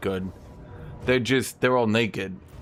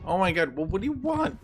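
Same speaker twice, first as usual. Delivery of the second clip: exasperated at cat; 9 semitones higher than usual. Real, not acted.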